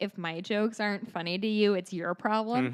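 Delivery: ordinary talk, nothing marked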